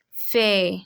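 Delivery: "Fait" said as feh, final consonant silent; French open E. Shown as a demonstration. Teacher repeats the word after the rule, careful French pronunciation. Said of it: "gives it an E sound".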